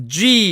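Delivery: "G" with a voiced hum before the burst; rubbed, bursting J sound. Shown as a demonstration. Teacher demonstrates the hidden sound, voiced burst. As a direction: hold back, then release a long "G". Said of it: "문질러서 터뜨리면서 소리를".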